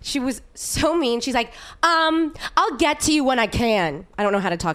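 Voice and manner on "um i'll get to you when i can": aggressive Jersey attendant. Retold or imitated. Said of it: "so I'm just gonna be aggressive".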